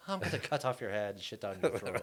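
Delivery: lightly voiced friendly Irish lilt; Irish accent. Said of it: "no matter what an Irish person says".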